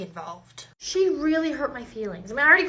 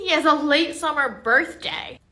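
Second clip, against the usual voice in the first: exasperated repeat; 2 semitones higher, 6 dB louder than usual. Acted. Acted teacher repeats, exasperated.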